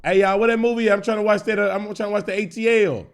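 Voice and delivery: calling loudly through the house for the movie; mock calling out. The aunt shouting to the kids for the movie, a loud call. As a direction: call out like an aunt looking for her DVD. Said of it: "She come knock on that".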